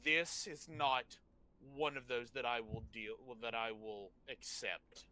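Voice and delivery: grave, measured rebuke with heavy pauses; most serious voice. Acted. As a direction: lay down the law in dead seriousness, word by word. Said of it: "in the most serious voice".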